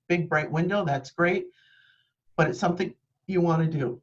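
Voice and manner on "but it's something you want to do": talking through the hiccups; rushed speech with hiccups. Real, not acted. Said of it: "I have the hiccups".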